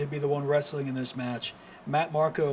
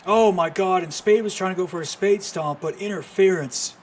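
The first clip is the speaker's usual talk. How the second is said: loud and high; excited call; 3 semitones higher, 6 dB louder than usual. Real, not acted. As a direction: shout it as it happens. Big stomp attempt broken up.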